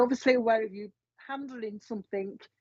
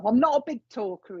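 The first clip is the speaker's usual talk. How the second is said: a hint of Yorkshire, imitating a dad; lightly put-on Yorkshire accent; 3 dB louder than usual. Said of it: "kind of a Yorkshire accent or something like that".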